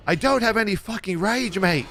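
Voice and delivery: high-pitched mock Australian whine; bad Australian accent. Imitating Chinglish out of rage, bad Australian accent. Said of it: "I can't do an Australian voice".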